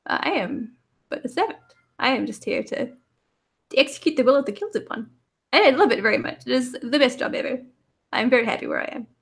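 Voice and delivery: a happy little servant robot; cute robot voice. Acted. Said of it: "the little robot is like".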